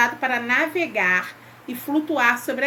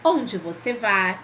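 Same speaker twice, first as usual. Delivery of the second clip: slow demo reading; 3 semitones lower than usual. Shown as a demonstration.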